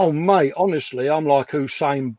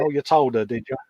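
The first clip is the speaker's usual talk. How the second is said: sarcastic; faster than usual. Retold or imitated. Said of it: "Dave was like".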